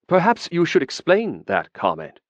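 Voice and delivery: pleasant. Acted. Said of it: "Elaith said pleasantly".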